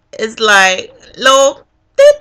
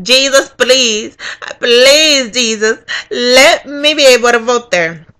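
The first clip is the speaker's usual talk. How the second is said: slightly raised, drawn-out prayer; pleading; 2 semitones higher than usual. Retold or imitated. Voter praying she can vote there, pleading. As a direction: beg with stretched words. Retold plea to Jesus.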